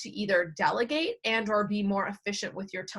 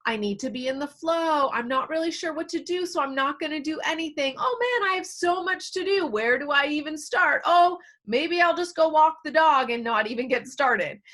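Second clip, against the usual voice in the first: overwhelmed inner voice; 5 semitones higher than usual. Acted.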